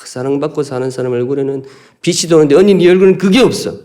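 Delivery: mock icy retort, rising high at the end; cold jab. Preacher replaying the sisters' quarrel, mock icy retort. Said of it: "여자들 싸움이 냉하거든요".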